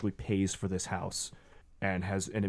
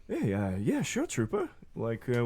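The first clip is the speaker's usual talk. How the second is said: eager driver; 2 semitones higher, 4 dB quieter than usual. Acted. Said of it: "And Eric in the front seat just like".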